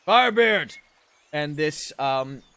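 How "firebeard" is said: loud, higher commanding shout; calling out. Acted. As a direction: call a subordinate over from afar. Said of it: "calls back to him".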